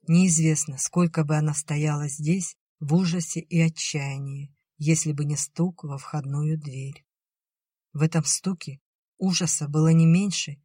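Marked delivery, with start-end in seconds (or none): none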